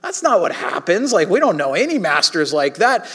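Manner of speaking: dismissive puff, then mock protest; scoffing disbelief. Preacher voicing Jesus' audience, scoffing in disbelief. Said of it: "everyone in Jesus' audience would have been like".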